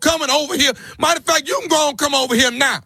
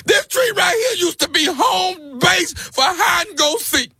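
fake crying; 4 semitones higher than usual. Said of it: "Are you crying?".

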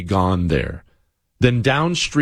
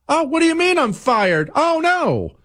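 mock dismay. Mocking fired celebrants' dismay.

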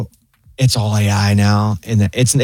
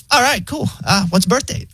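much higher, breezy AI voice; chill robot voice; 11 semitones higher than usual. Retold or imitated. Pharmacy AI asking for the birth date, high chill voice. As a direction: toss it off like a laid-back machine. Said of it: "so chill".

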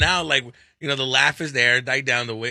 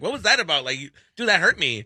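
put-on girly voice. Shown as a demonstration. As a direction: say it sweetly hurt, like a girl. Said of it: "if I repeat it in a girly voice".

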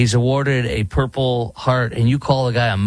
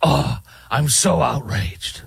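slow, put-on holier-than-thou whine; mock outrage; 2 semitones higher, slower than usual. Host mocking his own preachiness, slow mock outrage. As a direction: drag it out like a fake prude. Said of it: "talk like I'm, holier than thou".

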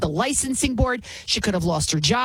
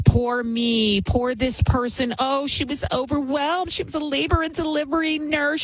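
mocking whine; 5 semitones higher than usual. Mocking excuses made for her.

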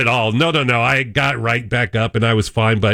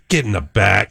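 disgusted order; 4 semitones lower than usual. Retold or imitated. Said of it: "He's just disgusted".

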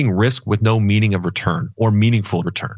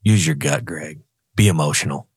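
lightly voiced devil, a bit lower; a hint of a sly devil on the shoulder; tempting devil voice; 4 semitones lower than usual. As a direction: coax him to follow his gut. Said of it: "the old one's saying".

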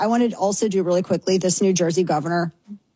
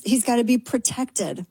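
usual speaking voice

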